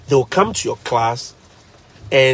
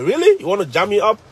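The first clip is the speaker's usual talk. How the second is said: incredulous challenge; 3 semitones higher than usual. Retold or imitated. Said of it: "I'm like".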